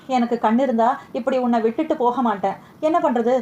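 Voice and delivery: a touch of tears, understated and fading; mildly tearful farewell to Rukmani; crying. Acted. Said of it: "என்று அழுந்தான்". (லேசான அழுகைக் குரல்)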